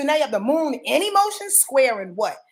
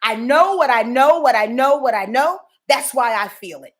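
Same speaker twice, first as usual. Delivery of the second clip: stubborn know-it-all moon; 5 dB louder than usual. Retold or imitated. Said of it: "the moon in Aquarius looks like this".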